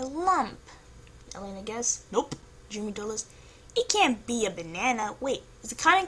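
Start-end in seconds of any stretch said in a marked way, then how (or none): none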